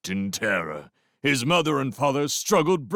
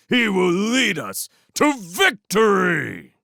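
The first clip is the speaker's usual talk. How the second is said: gloat, then rave at the top; ranting warlord; 3 semitones higher than usual. Acted. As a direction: warlord rat ranting at the prisoners about his banner. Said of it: "Clooney ranted and raved on".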